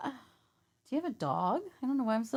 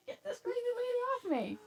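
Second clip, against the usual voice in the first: mock panicked man; 7 dB louder than usual. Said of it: "touched him, going".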